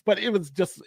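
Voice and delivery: ordinary talk, nothing marked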